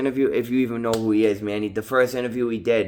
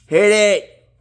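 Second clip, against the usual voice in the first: squeaky silly voice, much higher and louder; high squealing plea; 11 semitones higher, 9 dB louder than usual. Real, not acted. Vlogger begging viewers to hit like, high playful squeal. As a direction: shriek it playfully, like a cartoon.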